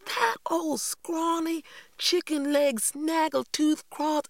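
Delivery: put-on high, loud, drawn-out child's tirade; sling the insults slowly in a high, outraged voice; indignant outburst. A narrator's reading. Cassie cuts Mama off to insult Lillian Jean, indignant outburst.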